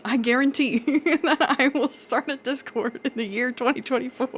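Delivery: Donald Trump impression. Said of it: "I'm doing the Donald Trump hands".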